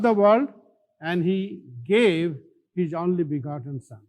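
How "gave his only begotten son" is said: gave said with weight and a falling tune; stress on gave. Shown as a demonstration. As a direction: lean hard on the word gave. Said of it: "The emphasis on gave".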